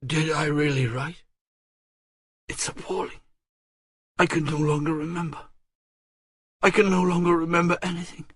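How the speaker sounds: a rising rush of mild panic; panic-stricken. A narrator's reading. Marguerite panics over her letter, mild hurried panic. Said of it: "panic-stricken".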